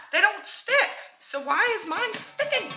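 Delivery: high, whiny frustrated question; pleading with the pan in disbelief; exasperated. Real, not acted. Frustrated about her sticking pan.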